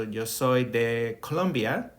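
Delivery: slow, careful "Yo soy de Colombia"; teacher modelling Spanish slowly; Spanish model phrase. Shown as a demonstration. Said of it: "Third thing is where you from".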